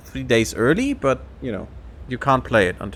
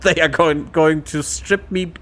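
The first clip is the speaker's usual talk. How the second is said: mock despair; 3 semitones higher, slower than usual. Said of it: "and then under his breath".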